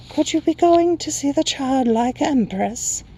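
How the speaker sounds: very high, slow airy creature; hooting Night Hob. A narrator's reading. Night creature asking about the Empress, high slow hoot.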